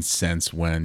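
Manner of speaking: "Since" said like "sense", Minnesota vowel; Minnesota accent. Shown as a demonstration. Showing how people here say it, Minnesota accent. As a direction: Minnesotan "Since when", I turned to E. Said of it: "Minnesota ones are I's and E's".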